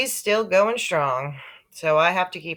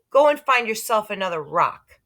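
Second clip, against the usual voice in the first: louder, higher fed-up order; annoyed shout; 6 semitones higher, 4 dB louder than usual. Acted. Peter ordering Sheila off the rock, raised annoyed voice. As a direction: tell her off with raised voice. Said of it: "I shouted".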